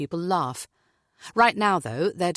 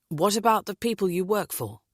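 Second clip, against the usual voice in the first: polite; 3 semitones higher than usual. Acted. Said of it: "James asks politely".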